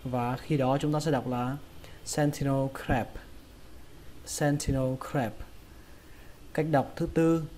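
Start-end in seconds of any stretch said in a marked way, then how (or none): 2.0-5.3 sentinel crab as SEN-thi-no kraeb; puffed T in sentinel, front "ae" vowel in crab; flattened A in crab. Shown as a demonstration. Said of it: "thành âm a bẹt".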